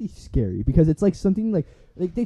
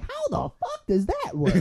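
high, slow disbelief through laughter; mock bafflement, laughing; incredulous laugh; 13 semitones higher, 4 dB quieter, slower than usual. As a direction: laugh at the absurd claim. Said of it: "I'm like".

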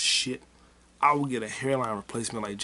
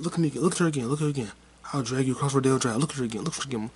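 imitating threat; 2 semitones higher, much faster than usual. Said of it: "He said".

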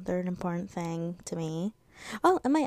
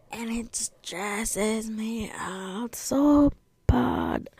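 stressed whisper; 3 semitones higher, 4 dB louder, much slower than usual. Real, not acted. Venting about school stress.

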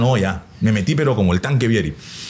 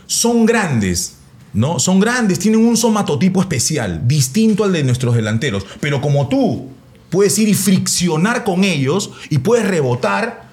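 lightly voiced coach, higher and eager; a hint of an earnest coach explaining; coach's pep talk; 5 semitones higher than usual. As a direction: coach selling a long tactical spiel. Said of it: "me metí un floro".

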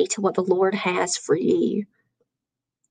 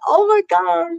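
shocked; 8 semitones higher than usual. Retold or imitated. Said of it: "And I'm like".

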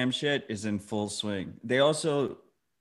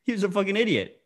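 whispered; 9 semitones higher, faster than usual. Real, not acted. Whispered verdict on Kevin Pham.

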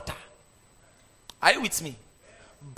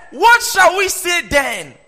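higher and louder, drawn out slowly; loud slow question; 9 semitones higher, 10 dB louder, slower than usual. Acted. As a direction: call the question out to the whole hall. Preacher varies the quoted question.

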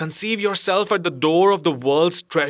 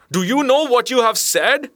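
incautious shout; 10 semitones higher than usual. A narrator's reading. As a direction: blurt it out, forgetting caution. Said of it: "I shouted incautiously".

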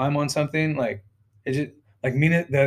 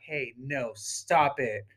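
soft, limp little telling-off; weak, low-key command; no authority; 3 semitones lower, 10 dB quieter, much slower than usual. Shown as a demonstration. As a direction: say it quietly with no force. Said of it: "You, you can't just say".

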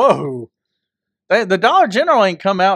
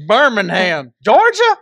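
playing Mike, answering where he's from with a jump on Georgia; mock hometown answer; 3 dB louder, slower than usual. Mock clerk asking hometown.

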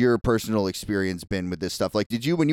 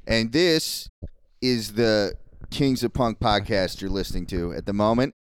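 swollen tonsils voice. Real, not acted. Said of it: "I have a sore throat".

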